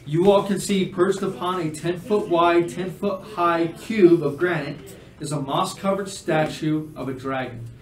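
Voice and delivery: measured game master description; scene narration. Acted. Game master describing a dragon statue, measured narration.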